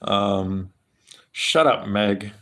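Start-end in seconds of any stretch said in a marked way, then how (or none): 1.3-2.3 Peter Griffin impression. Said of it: "How about that?".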